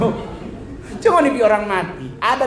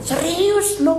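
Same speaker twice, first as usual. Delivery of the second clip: high, awkward actor delivery; stiff Manado line reading; 13 semitones higher, slower than usual. Retold or imitated. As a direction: read it like a stiff newcomer. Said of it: "Dia bagian". (aktor Manado yang kaku, nada tinggi)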